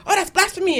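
high-pitched mock-scandalized mother; freaked-out mother. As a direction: lightly imitate a mother freaking out. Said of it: "didn't understand would freak her out".

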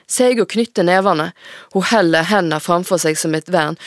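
put-on steady, measured reading of a teen novel; story narration. A narrator's reading. Author reading her own novel aloud to the host. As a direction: read the chapter aloud to the audience.

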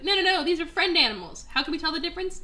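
lightly voiced fussy lion; exasperated mock voice.

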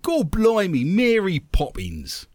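lightly hammed-up East End Cockney; Cockney accent. Shown as a demonstration. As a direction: give it a touch of stage Cockney, drawn out at the end. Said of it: "that's an East End of London Cockney accent".

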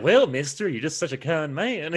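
imitating a grateful Southern girl, mildly; lightly voiced Southern belle. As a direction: gush over the kind gentleman. Voicing Carolina girl.

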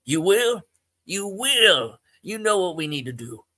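light up with sudden hope; relieved old Joe realizing his friend will help; hopeful excitement. Acted.

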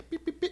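high little pi pi pi; tiny high-pitched pattering noises; playful step sounds. Retold or imitated. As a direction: imitate small wet steps in a high pitch. Imitating wading steps in water.

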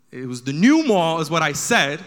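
new mall blasted out loud; stress on new. Shown as a demonstration. Comic insisting to the crowd on the new mall. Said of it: "I'm emphasizing this for you guys".

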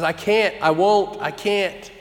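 imitated upset child. Daughter refusing to calm down, imitated upset protest. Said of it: "she cries and says".

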